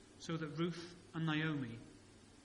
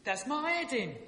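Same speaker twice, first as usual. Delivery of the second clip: high, loud London moan with dropped H; exaggerated London soap accent; 9 semitones higher, 6 dB louder than usual. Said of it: "The letter H has completely vanished".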